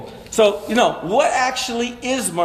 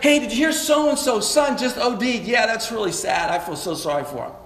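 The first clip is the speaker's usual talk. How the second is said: pity voice. Shown as a demonstration. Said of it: "It's like".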